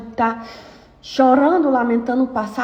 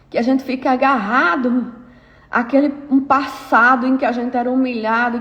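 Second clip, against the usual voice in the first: pressing the congregation hard; fervent preaching; 2 semitones higher than usual. Acted. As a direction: preach it with rising fervor. Preaching at full force.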